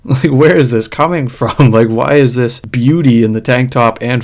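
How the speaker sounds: talking through real laughter; laughing. Real, not acted. Vlogger laughing at the rude singer in the video. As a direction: laugh while asking where this comes from.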